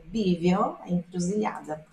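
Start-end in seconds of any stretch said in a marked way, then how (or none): 0.0-0.8 bivio with a clear b at the start; right bivio. Shown as a demonstration. Teacher giving students the right bivio.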